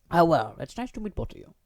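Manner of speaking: put-on timid girl voice. Yuri's polite greeting.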